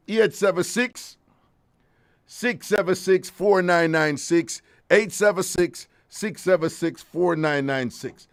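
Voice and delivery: slow, spelled-out number. Real, not acted. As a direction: read each digit slowly. Reading phone number slowly.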